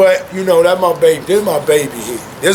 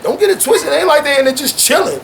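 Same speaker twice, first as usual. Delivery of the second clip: higher and animated, pressing the point; higher, fast insistence; excited insistence; 6 semitones higher than usual. Real, not acted. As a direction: sell it hard with a lift. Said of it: "they're both excited".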